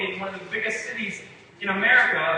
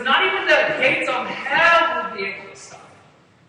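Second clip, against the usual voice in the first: slow, loud, every word hammered home; booming proclamation; 6 semitones higher, 7 dB louder than usual. Acted. Preacher thunders Jesus' promise to the congregation, slow and loud. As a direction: proclaim it like nothing can stand against it.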